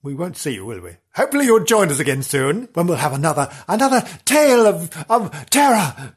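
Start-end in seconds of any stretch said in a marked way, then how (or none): 3.7-6.1 vintage horror narrator. Shown as a demonstration. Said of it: "Yes, better".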